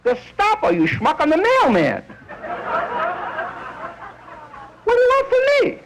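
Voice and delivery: put-on high, whining Yiddish-accented protest. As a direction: plead as a Yiddish mailman. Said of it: "people yelling Gestapo at him".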